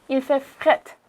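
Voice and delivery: "fret" said like "fett"; "il fait fret", Quebec style; Quebec slang pronunciation. Shown as a demonstration. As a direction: drop the r in "fret". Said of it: "Il, you say".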